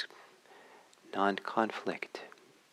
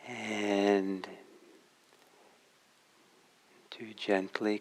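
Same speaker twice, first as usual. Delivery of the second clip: calm meditation guidance with long pauses between phrases; guided meditation. Real, not acted. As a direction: gently guide listeners inward, leaving long silences.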